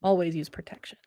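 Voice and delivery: hushed, whispered PSA; voiceless joke warning; mock-cautionary whisper. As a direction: whisper it like a secret reminder. Mock public reminder to viewers.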